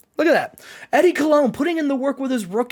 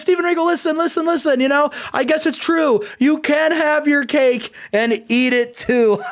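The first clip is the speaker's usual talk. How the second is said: higher retold taunt tipping into laughter; mock laughing; 5 semitones higher than usual. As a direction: imitate him teasing, laugh by the end. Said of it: "he's laughing".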